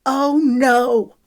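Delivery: high, loud protest; shouted. A narrator's reading. Lexi stops Wiley dismissing the girls, shouting. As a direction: shout him down. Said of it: "Lexi shouted".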